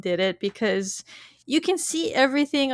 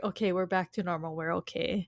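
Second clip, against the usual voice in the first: soft, lower self-reassurance; retold relief; 6 semitones lower, 9 dB quieter than usual. Podcaster voicing Chloe settling back to normal, soft reassurance. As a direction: quietly talk yourself back to normal, imitating her. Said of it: "to her, it's like".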